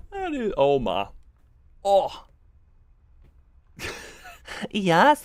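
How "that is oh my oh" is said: laughing. Real, not acted. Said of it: "cracking up".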